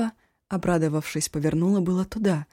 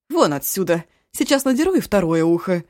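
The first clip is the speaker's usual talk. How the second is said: loud furious threat; angry threat; 7 dB louder than usual. Acted. Cook angrily orders Eshu out of the kitchen. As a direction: drive him out of the kitchen.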